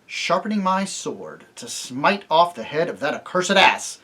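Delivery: slow, menacing threat; terrible voice. Acted. Tirian threatens the donkey in a terrible slow voice. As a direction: grind each word out. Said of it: "in a terrible voice".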